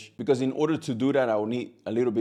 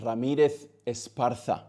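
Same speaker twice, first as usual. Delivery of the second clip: a quick Spanish-accented "Ramirez Esparza"; the name "Ramirez Esparza" in a hint of a Spanish accent. Shown as a demonstration. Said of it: "That was my Spanish accent right there".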